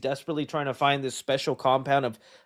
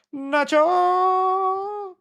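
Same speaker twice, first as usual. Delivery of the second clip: calling out; 5 dB louder than usual. Real, not acted. Calling out a name.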